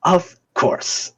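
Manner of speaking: airy, high nurse voice; =agree sweetly and breathily. Acted. Nurse agrees to use a spell, obliging. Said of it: "And she goes".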